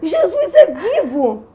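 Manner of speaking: mock shout, high and loud. Retelling a moment alone in a room: retelling a shout. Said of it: "E comecei a gritar".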